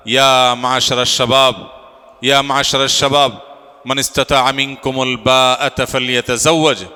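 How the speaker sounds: measured, drawn-out liturgical chant on a level tone; Arabic khutbah recitation. Acted. Officiant reciting the wedding sermon before the congregation, solemn recitation. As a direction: intone it slowly and evenly, stretching the long vowels.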